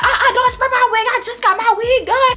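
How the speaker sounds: high, laughing uh-uh protest. Retold or imitated. Drunk girl laughing, begging homegirl not to spray her wig. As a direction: squeal about the wig through laughter. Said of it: "I was like".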